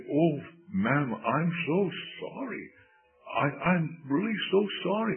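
high-pitched acted apology; flustered apology. Young preacher apologizing to the lady he fell on, flustered. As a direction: apologize profusely as the embarrassed young man.

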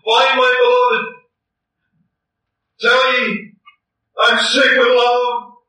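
a bride begging the daughters to find him; impassioned plea. Acted. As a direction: call out to them, aching with love. Bride pleads with daughters, acted.

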